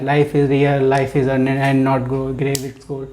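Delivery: slow, rhythmic poem reading; lilting verse read to show rhythm; poem recital. Shown as a demonstration. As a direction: recite it with a measured beat. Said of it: "तो prosody का means यही होता है".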